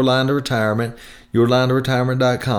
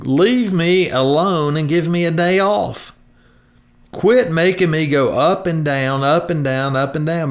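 hammed-up voice of worn-out savings; money complaining; 6 semitones higher than usual. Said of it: "the money in your retirement plan saying".

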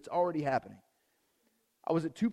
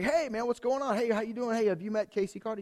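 higher-pitched, friendly hello; hearty greeting; 5 semitones higher than usual. Retold or imitated. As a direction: greet an acquaintance walking by.

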